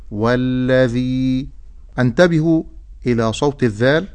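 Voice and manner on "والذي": "والذي" slow, with voiced dh and long ee; careful model word. Shown as a demonstration. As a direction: draw out "والذي" on a level tone. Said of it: "مد بالياء". ("والذي" بمد الياء)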